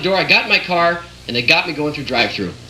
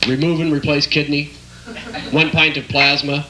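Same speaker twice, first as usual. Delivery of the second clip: slow bill reading; slower than usual. Retold or imitated. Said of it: "like the ones your mechanic gives you".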